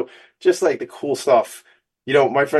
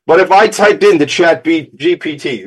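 excited aside; 8 semitones higher, 8 dB louder than usual. Real, not acted. Excited aside about ChatGPT.

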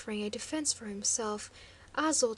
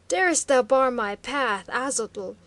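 hoarse cry; 9 dB louder than usual. A narrator's reading. Chieftain hoarsely shouts at guard blocking his path. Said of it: "he cried hoarsely".

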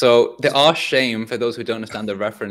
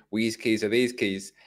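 Sunderland phrasing; slower than usual. Retold or imitated. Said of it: "they would say".

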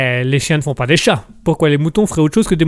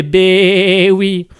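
Mouton's voice; 3 semitones higher, 3 dB louder, much slower than usual. Acted. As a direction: stretch it out sweetly to darlings. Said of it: "Mouton qui nous fait".

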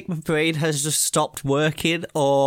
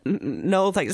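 stammering scared refusal; 5 semitones higher than usual. Retold or imitated. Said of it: "I was like".

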